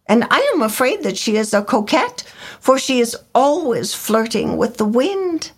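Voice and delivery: high, fast jealous bird voice; peevish swallow. A narrator's reading. Swallow grumbling about the flirting reed, high and fast. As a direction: rattle off the grievance. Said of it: "he said".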